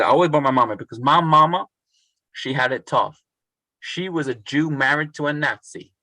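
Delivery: imitated Southern US accent; amateur attempt at a Southern American accent. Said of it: "in this sort of thick Southern accent".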